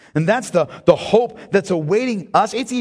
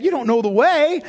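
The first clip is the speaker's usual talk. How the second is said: louder, higher, declaring "You don't know the way"; emphatic proclamation; 7 semitones higher, 4 dB louder than usual. Acted. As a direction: proclaim it to reassure Thomas. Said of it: "Jesus eliminates all of his fears by saying".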